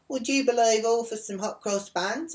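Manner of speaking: high, loud, incredulous jeer; put-on voice of scornful amazement; mocking disbelief. Other woman's scoffing quote.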